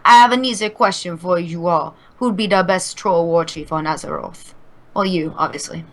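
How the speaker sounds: low, put-on troll war chief; lightly voiced troll war chief. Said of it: "my troll voice".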